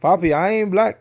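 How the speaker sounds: put-on a quick, failed stab at a Spanish accent; half-done Spanish accent. Mocking Dominicans who deny being black, in a Spanish accent. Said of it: "I can't do the Spanish accent right now".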